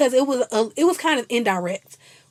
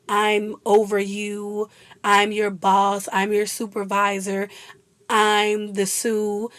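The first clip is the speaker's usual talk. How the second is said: mock boss; slower than usual. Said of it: "publicly humiliate her, be like".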